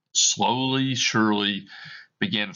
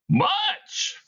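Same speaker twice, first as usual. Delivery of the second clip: much higher, eerie ghost voice, a touch louder; ghostly Marley voice; 4 dB louder than usual. Acted. Dead partner answering Scrooge, eerie high ghost voice. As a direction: moan it out like a spirit.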